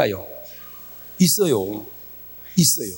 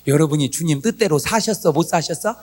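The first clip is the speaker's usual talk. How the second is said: usual speaking voice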